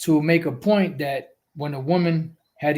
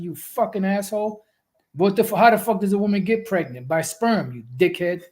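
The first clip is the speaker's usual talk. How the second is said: retold angry yell; 5 semitones higher than usual. Retelling yelling at the phone over the pregnancy question, mock outrage. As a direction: re-enact cursing someone out, pitch raised. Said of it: "I yelled at the phone".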